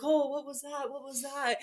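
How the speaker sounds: a hint of a flustered medium. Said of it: "super flustered and she was like".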